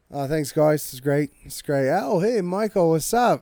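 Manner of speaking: British star impression; Henry Cavill. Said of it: "we're gonna reverse it".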